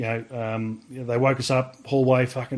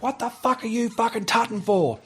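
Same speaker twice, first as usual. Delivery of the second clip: mock furious corporal, pitched much higher; hammed-up outraged question; angry corporal; 10 semitones higher than usual. Corporal rounds on recruit angrily.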